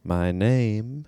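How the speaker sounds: hesitate, then lift the name in a put-on voice; Jeff Goldblum. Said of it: "I could do a Jeff Goldblum".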